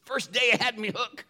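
punchline in a high hammed-up pirate voice. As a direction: land the joke as the old pirate. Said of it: "my pirate voice".

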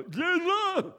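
high, strained cry of Jesus; terrified cry. Retold or imitated. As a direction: force the name out in fear. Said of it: "and you go".

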